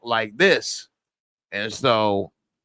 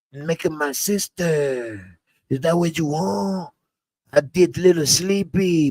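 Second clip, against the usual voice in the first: put-on Hispanic homeboy accent, raised voice; 2 semitones higher than usual. Sidekick pleading with his boss about product, imitated Hispanic accent. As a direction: imitate a Hispanic sidekick with sing-song line ends. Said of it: "I was doing the Spanish impression".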